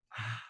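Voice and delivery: soft, breathy sigh of regret; regretful sigh. Retold or imitated. Speaker recalls repenting to the Lord, regretful sigh. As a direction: let out a quiet, remorseful "ah". Acting out own regretful prayer.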